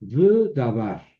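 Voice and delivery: v davar slow, v attached; Hebrew demo. Shown as a demonstration. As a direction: say v davar slowly as one word. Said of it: "aparece puntuada con sheva".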